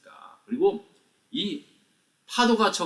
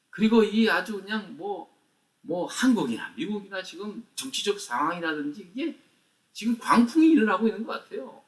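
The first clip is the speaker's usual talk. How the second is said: fervent prayer; 4 semitones higher than usual. Retold or imitated. Retelling his own prayer.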